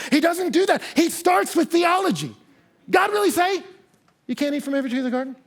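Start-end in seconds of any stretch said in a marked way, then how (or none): 2.9-5.3 sly serpent question. Retold or imitated. Serpent's real question to Eve.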